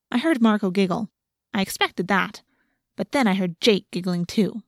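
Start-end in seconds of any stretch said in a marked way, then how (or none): none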